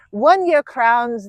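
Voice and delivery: slow, hushed nature documentary narrator; David Attenborough. Pretend. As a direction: draw the words out like a wildlife narrator. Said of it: "David Attenborough accent".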